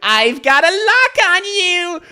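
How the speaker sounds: high, slow, laughing through the line; laughing imitation. Streamer cracking up while repeating the character's line, high and laughing.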